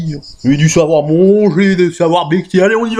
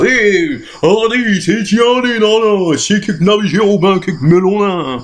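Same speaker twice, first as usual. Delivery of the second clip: country bumpkin; 4 semitones higher, slower than usual. Acted.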